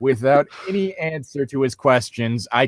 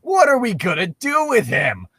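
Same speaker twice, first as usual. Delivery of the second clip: higher, slower worried question; a husband fretting about the griffin; worried Link; 8 semitones higher than usual. Acted. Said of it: "Link inquired".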